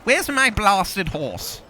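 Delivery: mock-indignant complaint; exasperated call. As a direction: call out for a missing horse, drawing it out. Calling out for his missing horse.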